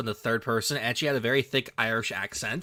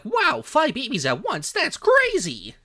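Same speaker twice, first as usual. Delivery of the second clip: mock amazement; 11 semitones higher, slower than usual. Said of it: "people are like".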